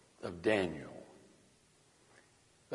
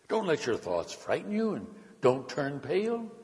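higher, animated narrator's queen; lightly voiced counselling queen; 6 semitones higher, 3 dB louder than usual. A narrator's reading. Queen advises the frightened king, lightly voiced in raised pitch.

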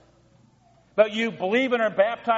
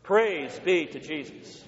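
congregation response; 3 semitones lower, slower than usual. Real, not acted. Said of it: "Say it with me".

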